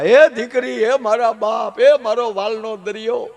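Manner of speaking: put-on high, drawn-out old mother's lament; mock wailing. Old mother weeps as bride leaves, mock high wail. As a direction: wail it in long held notes, hammed-up. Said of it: "ગઢા માએ મીડ્યા રડવા".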